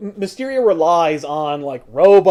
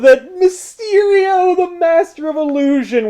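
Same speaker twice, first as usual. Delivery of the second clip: higher, slow dramatic reveal; dramatic announcer; 12 semitones higher, 3 dB louder, slower than usual. Pretend. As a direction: announce it like a trailer.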